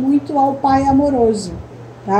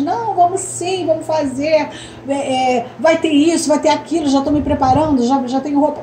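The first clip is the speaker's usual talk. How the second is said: mild excited reply; 2 semitones higher than usual. Shown as a demonstration. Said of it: "E aí vocês respondem".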